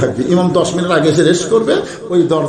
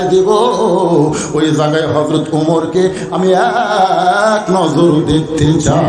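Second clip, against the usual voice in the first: tearful lament. Acted. Shepherd explaining his longing to see Omar, acted tearful chant. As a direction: intone a plaintive confession, stretching phrase ends. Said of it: "থরথর করে কাঁপে আর কান্দে".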